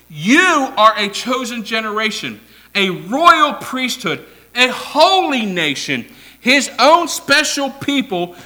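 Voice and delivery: emphatic pulpit reading; preached scripture. Real, not acted. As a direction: proclaim it to the congregation. Preacher proclaims the verse.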